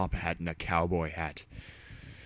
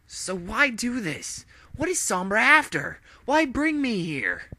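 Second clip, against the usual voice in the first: hero voice, demanding; 5 dB louder than usual. Acted. Captive hero to villain, defiant and high.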